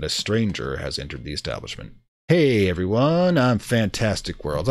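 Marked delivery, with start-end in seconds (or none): 2.3-4.7 slow, mock-mystical intro; mystic greeting. Streamer greeting the diner with the mystic option, slow and mock-mystical. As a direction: intone it like a mysterious seer. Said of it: "the mystic option".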